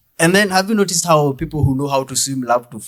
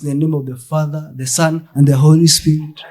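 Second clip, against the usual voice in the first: the blessing "In the name of the Father, the Son, and the Holy Spirit" recited like a priest, building louder toward "Holy Spirit"; mock church blessing; 3 dB louder than usual. Shown as a demonstration. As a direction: intone it like a priest closing the service. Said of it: "at the end of the service".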